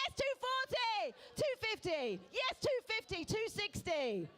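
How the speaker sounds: high, excited bidding cries; wife's eager thoughts. Retold or imitated. Auctioneer voicing the wife's excited inner bidding, high and eager. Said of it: "She's thinking".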